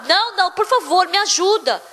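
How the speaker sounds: beg, cutting off the refusal; acted-out urgent begging; imploring. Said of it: "porque ele implorou tanto".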